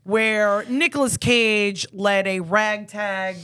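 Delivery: trailer voice. Acted. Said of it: "host movie-trailer intro".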